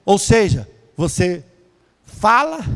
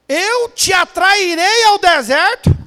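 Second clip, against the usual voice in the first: slow high divine proclamation; 11 semitones higher, 5 dB louder, slower than usual. Acted. God's word proclaimed.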